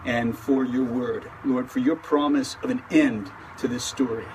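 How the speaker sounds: calm, earnest prayer voice; opening prayer. Acted. Pastor leads an opening prayer.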